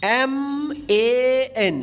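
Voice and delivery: letters spelled out slowly one by one; drawn-out letter-by-letter spelling. Shown as a demonstration. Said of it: "आप ए का ए उच्चारण से बने words".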